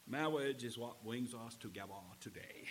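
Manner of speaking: mock priest with r's as w's; movie priest's accent. Preacher giving in to the wedding temptation, imitated priest's accent. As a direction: say it as a comic, lisping wedding officiant. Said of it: "he has this accent, and he goes".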